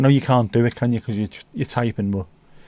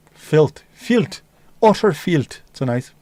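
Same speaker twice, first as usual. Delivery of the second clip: disgusted; 3 semitones higher, slower than usual. Acted. Playful disgust.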